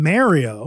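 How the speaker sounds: Mario drawn out slowly with a "mare" vowel; Canadian-style Mario. Shown as a demonstration. Host showing what he grew up saying, Canadian-style Mario. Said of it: "they said in the Canadian fashion".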